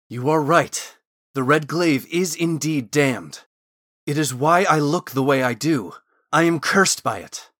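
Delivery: emphatic character voice owning up; urgent confession. A narrator's reading. Thorn urgently confesses to Gwen.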